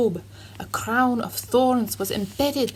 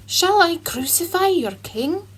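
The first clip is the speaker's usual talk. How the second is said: Pilate crying out; 7 semitones higher than usual. A narrator's reading. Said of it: "cried Pilate".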